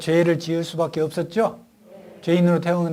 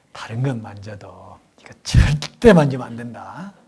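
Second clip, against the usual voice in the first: hushed warning from mother; 4 semitones lower, 5 dB louder than usual. Retold or imitated. Mother warning daughter in story.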